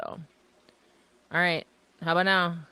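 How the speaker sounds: glitchy robot-like call audio; buzzy, glitchy audio like a robot; robotic call audio. Real, not acted. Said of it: "You sounded like a robot".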